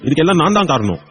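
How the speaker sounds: grandfather weeping over his grandson; crying out in grief as the grandfather; tearful grandfather. Acted. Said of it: "அழாதீங்க".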